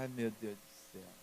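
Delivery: low, slow, hushed dismay; mock-weary private lament; dismayed groaning aside. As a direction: sigh it out under your breath, dragging the words. Father's retold dread at daughter's news.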